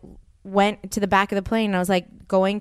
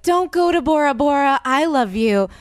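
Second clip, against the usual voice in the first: mock rom-com plea; 6 semitones higher than usual. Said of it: "There was no one that was like".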